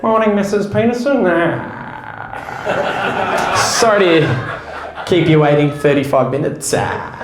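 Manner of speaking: doctor in a halting pilot-announcement drone; bored captain voice, in a doctor's office; doctor talking like a pilot. Retold or imitated. Comic's doctor telling a patient bad news in pilot-speak, hammed drone. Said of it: "they're like".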